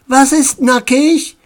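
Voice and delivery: put-on high, puzzled child's question; a touch of innocent astonishment; astonished. A narrator's reading. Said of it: "in die erstaunten Gesichter ihrer Kinder".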